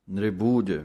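ਨਿਰਬੂਜ said tight with a firmly pressed ਜ; tight pronunciation. Shown as a demonstration. Teacher models ਨਿਰਬੂਜ for students, said tightly. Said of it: "ਇਹ ਵੀ ਕੱਸ ਕੇ ਹੈ".

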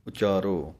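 ਉਚਾਰੋ with a short u; ਉਚਾਰੋ, a short u at the start; Gurbani pronunciation. Shown as a demonstration. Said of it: "ਊੜੇ ਥੱਲੇ ਇੱਕ ਔਂਕੜ ਦੀ ਆਵਾਜ਼ ਹੀ ਦੇਣੀ ਹੈ".

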